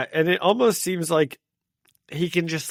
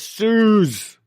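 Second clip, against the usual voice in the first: loud, high call of her name; retold yell; 8 semitones higher, 6 dB louder than usual. Acting out the hero calling to Suze, yelled. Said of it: "He yells".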